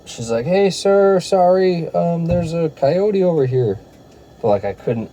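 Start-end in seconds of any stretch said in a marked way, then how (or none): 0.5-3.8 high-pitched imitation of a Spanish-accented woman; imitated Spanish accent. Lady warning a runner about a coyote, imitated Spanish accent. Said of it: "a thick Spanish accent".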